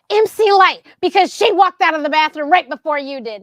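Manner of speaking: imitating a sister telling her off; exasperated. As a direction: hammer out the correction, voice up. Retells sister scolding her.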